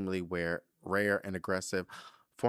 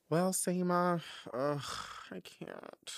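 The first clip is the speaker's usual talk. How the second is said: choked up; 9 semitones higher, slower than usual. Real, not acted. Choked up after emotional letter.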